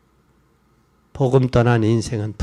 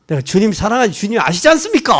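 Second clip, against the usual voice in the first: earnest cry; 5 semitones higher, 6 dB louder, faster than usual. Acted. Peter's earnest reply to Jesus.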